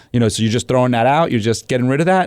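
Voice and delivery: lifted, mock-innocent leading question; teasing feigned assumption; sarcastic. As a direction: bait him with light sarcasm. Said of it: "sarcastic line of questioning coming his way".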